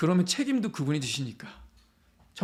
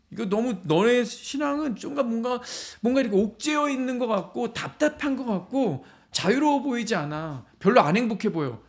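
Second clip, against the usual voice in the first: higher-pitched, halting critic's complaint; acted disapproval; 4 semitones higher than usual. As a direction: voice a friend's nagging doubts. Acting critics of a believer's faith.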